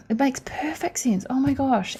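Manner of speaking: unvoiced whisper of sudden realization; realizing whisper. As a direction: whisper it as if it just dawned on you.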